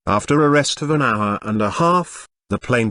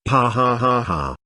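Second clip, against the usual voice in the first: burst of laughter. A narrator's reading. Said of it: "burst out laughing".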